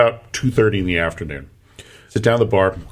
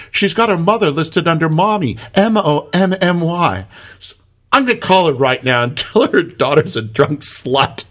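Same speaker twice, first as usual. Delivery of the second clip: high Irish lilt, gleeful; mock Irish barmaid, plotting mischief; Irish bartender voice; 6 semitones higher than usual. Bartender plans to call the girl's mother, in an Irish accent. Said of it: "And she goes".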